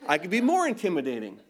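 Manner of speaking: lightly voiced commanding Marine; a touch of military command. Shown as a demonstration. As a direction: put on a hint of a firm Marine voice. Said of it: "when I put my Marine voice on".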